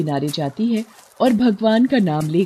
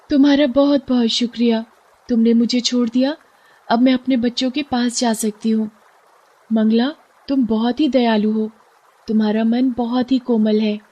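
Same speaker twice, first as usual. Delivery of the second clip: higher, thankful fish; grateful fish voice; 5 semitones higher than usual. Acted. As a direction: bless her kindness in a lifted voice.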